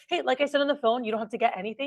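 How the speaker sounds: bright pitch with a high opening Hey; upbeat sales pitch. Shown as a demonstration. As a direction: greet the customer, Hey lifted high. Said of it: "For instance, watch".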